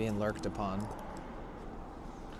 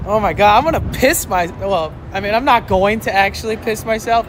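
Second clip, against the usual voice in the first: urgent need to pee; 5 semitones higher, 4 dB louder than usual. Real, not acted. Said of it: "I have to pee so bad".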